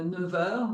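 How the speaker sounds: "neuf heures" linked as "neu-veur", F said as V; French "neuf heures" with a v linking the words; voiced liaison. Shown as a demonstration. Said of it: "F is pronounced like a V".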